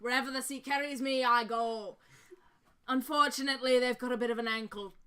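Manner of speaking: lightly voiced Scottish-sounding dwarf; genial dwarf wanderer. Dwarf explaining his wandering to a brother, genial. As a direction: tell it like a travelling dwarf.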